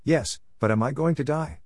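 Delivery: panting question; gasping out the words; out of breath. Retold or imitated. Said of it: "And pants out this question".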